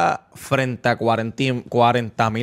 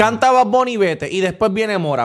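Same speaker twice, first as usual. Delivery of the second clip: worked-up rant; 4 semitones higher than usual. Real, not acted. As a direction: push the point up high and hard. Ranting about show setlist.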